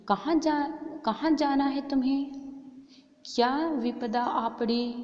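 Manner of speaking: high, loud hero demanding answers; Bhima asking. A narrator's reading. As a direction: boom out the question, slowing at the end. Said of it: "ಅವಾಗ ಭೀಮ".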